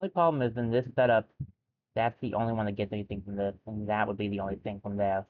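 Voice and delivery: talking while crunching chips. Real, not acted. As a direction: speak through a mouthful of chips. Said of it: "Pardon the crunching".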